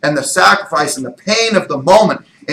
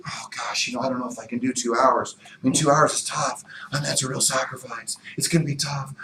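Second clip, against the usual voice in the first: discouraged and quiet, sighing the worries out; doubtful self-talk; 2 semitones lower, 10 dB quieter, faster than usual. Acted. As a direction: talk yourself out of it under your breath.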